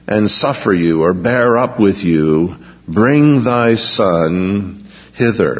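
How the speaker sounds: measured, solemn reading of the Gospel; scripture reading. Acted. Preacher reading the healing story to the congregation, solemn. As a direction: read the verses like a pulpit lesson.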